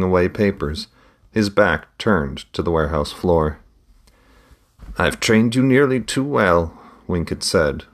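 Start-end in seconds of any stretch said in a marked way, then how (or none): 5.0-6.8 smiling voice. A narrator's reading. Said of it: "with a smile in his voice".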